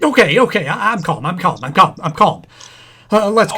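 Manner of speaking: nervous insisting. Acted. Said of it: "just don't get excited".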